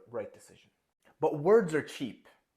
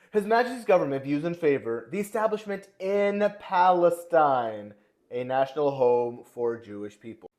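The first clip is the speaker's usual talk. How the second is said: hammed-up British accent, louder and slow, pompous; terrible British accent; 3 semitones higher, 7 dB louder than usual. Reading the declaration aloud in a loud, slow, terrible British accent. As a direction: proclaim it like a bad British statesman, British accent. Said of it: "I'm gonna do it in a terrible British accent".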